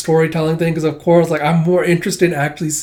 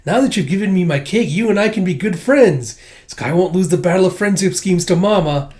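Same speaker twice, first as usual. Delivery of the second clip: put-on little girl voice; 4 semitones higher than usual. Anya's inner thoughts voiced.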